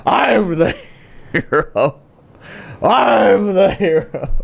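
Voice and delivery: put-on slow slurred tough-guy drunk; drunk belligerent dude. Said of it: "Sounds like some fucking drunk, belligerent dude".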